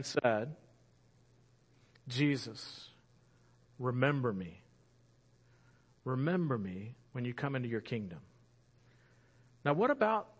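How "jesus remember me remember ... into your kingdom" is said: low, soft, reverent entreaty; hushed, earnest request; solemn plea. Acted. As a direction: plead gently, with long pauses between phrases. Dying criminal's plea to Jesus, acted.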